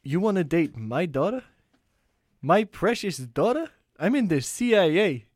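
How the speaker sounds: lightly voiced suspicious father, slow at the end; a hint of a menacing dad grilling the boyfriend; De Niro as the father. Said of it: "we went for a Meet the Fockers, Robert De Niro".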